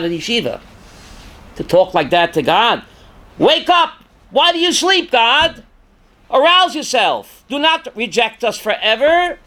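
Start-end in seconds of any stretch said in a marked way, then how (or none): 3.4-9.4 higher, urgent plea to wake God; pleading outcry. Acted. King David calling on God to wake up, urgent raised plea. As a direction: cry out to God, begging.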